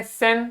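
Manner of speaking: "सेन" as one separate syllable with clear e; syllable demo. Shown as a demonstration. Teacher reading the phonetic spelling, "सेन" as a separate syllable. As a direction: isolate "सेन" as the first syllable. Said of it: "इसको कैसे पढ़ेंगे".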